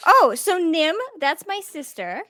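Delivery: lightly voiced child; a hint of an eager little boy; halfling boy. Halfling boy inviting a stranger to play, lightly childlike. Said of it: "a ten-year-old".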